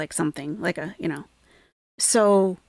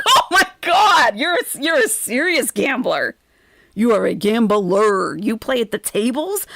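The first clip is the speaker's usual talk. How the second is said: mock amazement; 4 semitones higher, 5 dB louder than usual. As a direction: gasp it out, stretching the words in mock awe. Acted amazed reaction to his gambling.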